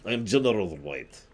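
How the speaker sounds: a hint of a Russian accent on General White; lightly put-on Russian general, stressing General; mock Russian accent. Russian Bob-omb general introducing himself, light mock Russian accent. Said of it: "Sorry, he's Russian".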